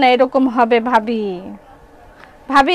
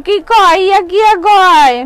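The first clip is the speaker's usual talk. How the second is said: higher, louder mock babble; mocking gibberish; 5 semitones higher, 5 dB louder than usual. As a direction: parrot nonsense back in a teasing tone. Mocking a confusing customer.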